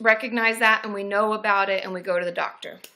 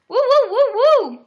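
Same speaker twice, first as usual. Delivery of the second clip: high, slow hooting; drawn-out monkey woos; monkey hoots; 11 semitones higher, 8 dB louder, slower than usual. Acted. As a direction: hoot slowly like a monkey. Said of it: "I've been working on my monkey noises".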